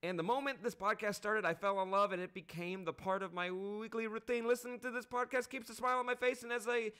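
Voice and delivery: Australian accent, earnest review read. Shown as a demonstration. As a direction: read it in a put-on Aussie voice. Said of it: "that was actually his Australian accent the whole way through".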